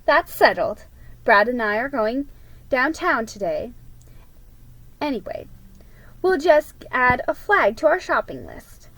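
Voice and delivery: mildly bright and upbeat; cheerful. Acted. Mom settling the tree debate, lightly cheerful. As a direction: wrap it up with a smile. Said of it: "said Mom in a cheerful voice".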